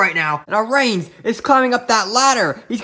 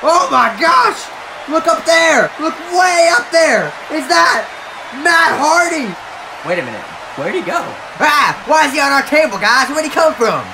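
wrestling commentator; 5 semitones higher than usual. Acted. Commentator shouting at surprise entrance.

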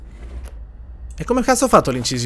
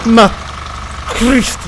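startled curse; 7 semitones higher, 6 dB louder, slower than usual. Real, not acted. Spavento improvviso nel gioco.

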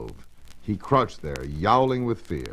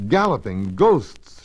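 slow, louder exclamation; shouting; 3 semitones higher, 5 dB louder, slower than usual. Acted. Maggie spots the glowing vacuum cleaner and shouts out slowly. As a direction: call it out slowly in astonishment. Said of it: "she shouted".

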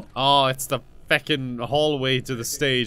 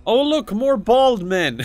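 higher, louder and slow; excited; 10 semitones higher, 5 dB louder, slower than usual. Real, not acted. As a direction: cry it out in delight. Spots more bald men.

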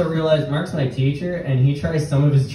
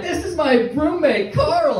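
high-pitched mock Indian accent; put-on Mumbai accent; 12 semitones higher than usual. Son introducing imaginary roommate to his mom, mock Indian accent. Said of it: "I'm just doing an accent".

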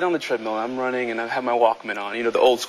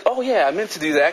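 playing it cool; 4 semitones higher than usual. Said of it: "you kinda get cool".

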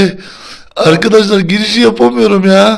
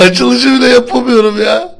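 laughing; 6 semitones higher than usual. Real, not acted. Giggling fit during intro.

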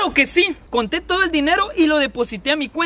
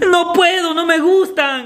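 tearful whine; 3 semitones higher, slower than usual. Acted. Child refusing vegetables, whining.

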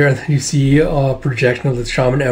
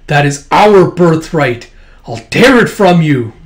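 fierce threat; 3 semitones higher, 5 dB louder than usual. Acted. Wolf Ancient threatens in battle.

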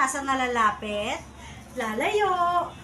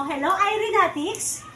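voicing the cat; 6 semitones higher, 4 dB louder, slower than usual. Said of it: "Sabi mo".

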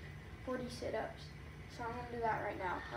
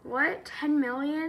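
loud disbelieving what; shocked, loud question; surprised; 3 semitones higher, 9 dB louder, slower than usual. Real, not acted. Reacts to joke about play button.

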